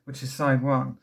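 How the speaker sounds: winded, short of breath; talking while out of breath. Real, not acted. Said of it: "I'm out of breath".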